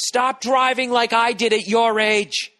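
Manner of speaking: put-on high, loud, slow old-man yell; cranky old man yelling at kids; crabby old man yell. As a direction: shout out the window like a grumpy geezer. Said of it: "Yelling out the window at kids".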